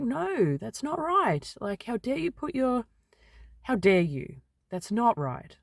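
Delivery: high, firm, indignant objection; indignant retort. Retold or imitated. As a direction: push back hard against the mum. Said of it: "Whereas this time I was like".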